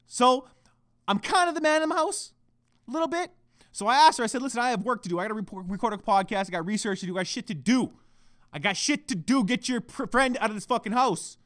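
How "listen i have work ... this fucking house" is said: blunt, impatient ordering; blunt demand. Retold or imitated. Boyfriend wanting the friend out, blunt and demanding. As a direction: lay down the demand without any politeness. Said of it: "I didn't say it like that".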